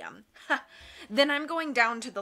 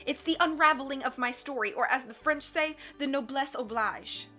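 scornful; 3 semitones higher than usual. Acted. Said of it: "Count Olaf said scornfully".

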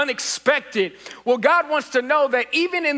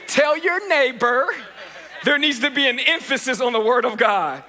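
amused second try at the call; laughing retry. Real, not acted. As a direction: say it again while chuckling. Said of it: "Maybe if I shorten it".

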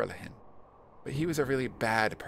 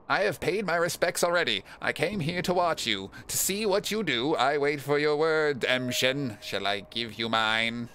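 solemn watcher character; 4 semitones higher, 4 dB louder than usual. Acted. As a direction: intone it like a watchful stranger. Voices watcher in the game.

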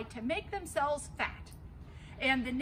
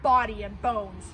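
defiant big goat; 3 semitones higher, 7 dB louder than usual. Acted. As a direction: dare the troll to come. Big goat threatens troll.

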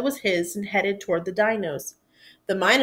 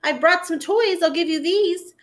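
high pleading voice; high hopeful plea; 8 semitones higher than usual. Acted. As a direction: beg them to play, voice raised. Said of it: "The Minosaur tried saying".

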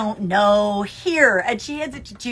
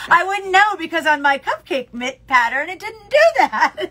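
high and louder through laughter; laughing quote; 5 semitones higher, 4 dB louder than usual. Retold or imitated. Quoting Judy on her cupcake mitts, laughing.

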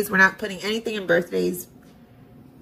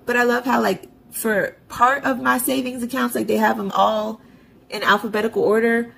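sarcastic; 2 semitones higher than usual. Real, not acted. Budgeter complaining to viewers about her savings accounts, sarcastic. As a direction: gripe with full sarcasm. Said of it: "with all the sarcasm in my body".

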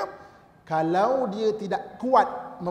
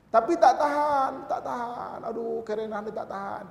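1 exasperated; 4 semitones higher than usual. Retold or imitated. Mimicking exasperated wife-weary husband.

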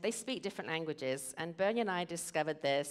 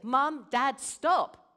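son yelling stop; 8 semitones higher, 11 dB louder, much slower than usual. Retold or imitated. Son interrupts yelling parents.

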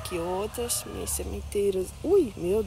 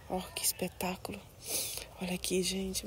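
hushed wonder, barely voiced; awed whisper; 11 dB quieter than usual. Real, not acted. Vlogger marvelling at her flower, whispered awe. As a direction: breathe it in an unvoiced whisper.

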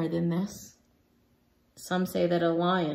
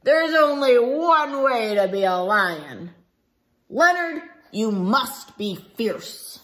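louder fierce roar at Leonard; roaring lions; 5 dB louder than usual. Acted. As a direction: boom it out like a pack of lions. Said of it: "The fierce lions growled and roared".

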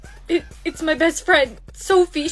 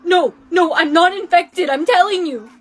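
loud, insistent protest; panicked denial; 5 dB louder than usual. Acted. Accused girl denying infection, loud and panicked. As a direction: protest for your life.

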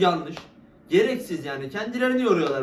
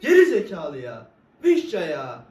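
laughing frustration; 6 dB louder than usual. Real, not acted. Laughing while cursing.

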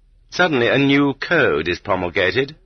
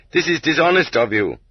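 raised, indignant protest at the court; protesting defendant; 7 semitones higher than usual. Retold or imitated. Defendant protesting to the court, lifted indignant voice. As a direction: object hotly, voice lifted high. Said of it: "When the defendant protested".

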